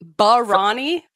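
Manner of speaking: BARANI slowly with a stressed RAH, rising; questioned pronunciation. Shown as a demonstration. Host doubting co-host's new pronunciation, questioning echo. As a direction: sceptically echo BARANI as bar-RAH-nee. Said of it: "that's how we're pronouncing it now".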